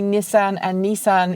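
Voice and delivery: "Nissan and Nissan" as NISS-an, then NEE-san; first "Nissan" short i, second "Nissan" long ee; both Nissan pronunciations. Shown as a demonstration. Vlogger covering both camps in one video, NISS-an then NEE-san for "Nissan and Nissan". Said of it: "trying to put both pronunciations in".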